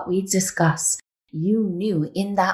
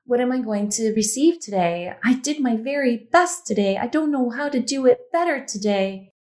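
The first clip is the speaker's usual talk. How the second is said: higher, anxious voicing of her worried thoughts; fearful inner voice; 5 semitones higher than usual. Coach voices the client's fearful inner thoughts, anxious and higher. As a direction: speak her fear aloud, higher, like a nervous wife.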